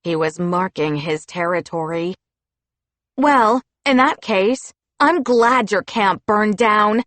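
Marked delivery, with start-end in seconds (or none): 3.2-7.0 shot back. Acted. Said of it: "I shot back".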